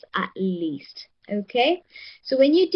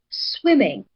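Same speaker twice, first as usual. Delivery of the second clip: first syllable of "swimming" stressed; stress on SWIM. Shown as a demonstration. Teacher shows the class the answer, stressed first syllable of "swimming". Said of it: "receives the higher voice".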